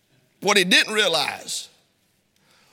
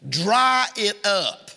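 slow, drawn-out fatherly order; stern father; 2 semitones lower, much slower than usual. Retold or imitated. Preacher repeating his daddy's order, slow and stern. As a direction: stretch each word out like a dad laying down the law. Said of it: "That's what he would say".

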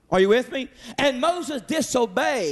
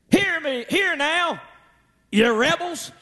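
raised, stern rebuke, mildly acted; upset Moses; 3 semitones higher than usual. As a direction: scold the people as an upset Moses. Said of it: "he is still upset".

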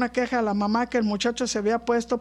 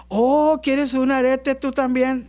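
mock sweet offer; slower than usual. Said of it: "bien sabia".

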